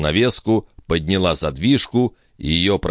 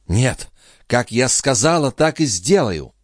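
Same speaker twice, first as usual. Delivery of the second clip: a hint of a vengeful girl; 8 semitones higher than usual. Lorenza firm vow.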